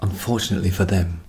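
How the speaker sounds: hushed whisper so parents sleep; whispering so as not to wake anyone; quiet at night. Real, not acted. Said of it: "I'm speaking quietly because my parents are asleep".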